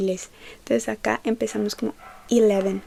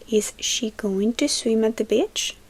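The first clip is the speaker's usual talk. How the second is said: slow model question; slower than usual. Shown as a demonstration. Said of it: "Entonces sería".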